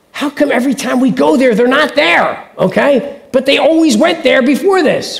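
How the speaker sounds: frustrated king. Retold or imitated. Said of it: "like, saying".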